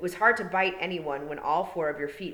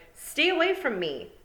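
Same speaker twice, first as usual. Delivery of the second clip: higher, louder cry to keep away; frightened shout; 11 semitones higher, 5 dB louder than usual. A narrator's reading. Boy running from Tiffany, frightened shout. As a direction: fend her off while fleeing. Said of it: "He turned and shouted".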